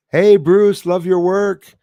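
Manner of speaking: loud, high, thrilled mock greeting; a famous man hailing you, imitated loudly; excited greeting. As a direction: belt it out like a fan shouting your name. Quoting a legend's praise.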